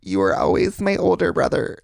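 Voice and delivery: put-on strong Wisconsin accent. Imitating a family member's intervention letter, strong Wisconsin accent. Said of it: "the accent's, like, so strong".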